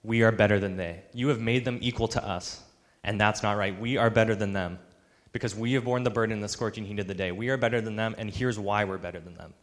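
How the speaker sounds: loud, emphatic complaint of the entitled worker; indignant grumbling. Acted. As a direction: protest loudly with heavy stress on key words. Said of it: "They grumbled".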